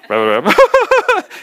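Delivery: high burst of laughter; real laugh. Real, not acted. Pastor laughing at his own tearful story, real laugh. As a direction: laugh hard at yourself.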